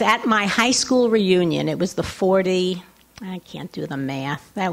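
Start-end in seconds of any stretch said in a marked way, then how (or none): 3.2-4.4 quick unvoiced whisper to herself; whispered aside. Real, not acted. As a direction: drop to a whisper, as if to yourself.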